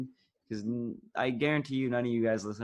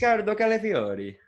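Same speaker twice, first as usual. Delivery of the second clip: loud, high-pitched mock Italian accent; 10 semitones higher, 6 dB louder than usual. Shown as a demonstration. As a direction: belt out the name like an excitable Italian. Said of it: "in your Italian accent".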